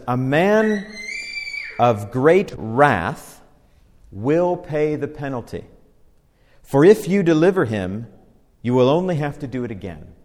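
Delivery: measured, deliberate proverb reading; unhurried reading from the pulpit; scripture reading. Acted. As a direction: give each phrase its weight. Reads scripture aloud.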